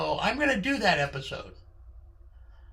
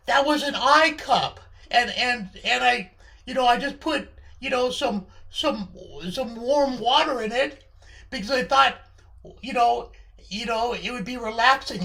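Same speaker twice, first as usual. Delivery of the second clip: mildly flustered, stammering, higher voice; slightly raised, defensive fumbling; flustered defence; 4 semitones higher, 4 dB louder than usual. Acted. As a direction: explain yourself haltingly under accusation. Acted flustered defence to Charlie.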